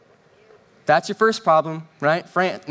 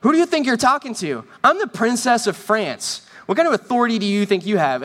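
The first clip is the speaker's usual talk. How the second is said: higher-pitched, hammed-up royal affront; indignant young princess; 4 semitones higher than usual. Young Mary rebukes the lady who shushed her, indignant. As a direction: pull rank on someone beneath you. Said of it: "she goes like".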